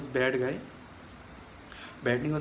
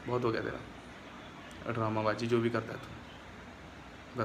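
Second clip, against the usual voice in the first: hushed warning; 2 semitones lower, 7 dB quieter, much slower than usual. Pretend. Quietly warning the tea seller he'll confront tomorrow, slow hushed voice. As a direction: say it under the breath, slowly. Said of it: "उसे कह दूँगा जाके कल".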